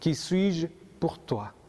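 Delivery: slow, deliberate, each word weighed; slow personal question. Retold or imitated. Jesus asks each listener today, slow and deliberate. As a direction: ask it slowly, as if to one listener. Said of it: "Jésus vient te poser et me poser aussi la même question".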